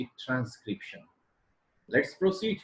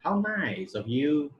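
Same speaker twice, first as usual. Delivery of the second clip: slow, "How nice" lifted then falling on "you"; falling exclamation; 3 semitones higher, slower than usual. Shown as a demonstration. Teacher showing an exclamation, slow with falling tone to "you". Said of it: "the fourth is exclamation".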